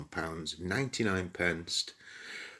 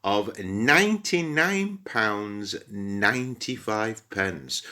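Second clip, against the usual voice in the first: slow, mock-grand announcement; dramatic price reveal; slower than usual. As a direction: unveil the number like a game-show prize, slowly.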